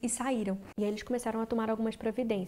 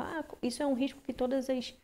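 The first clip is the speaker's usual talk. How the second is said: imitating the doctor; 4 semitones higher than usual. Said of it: "sabe aquele médico americano".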